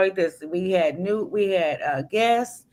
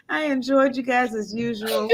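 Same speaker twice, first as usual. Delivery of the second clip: laughing. Real, not acted. Repeating sign-off, still laughing.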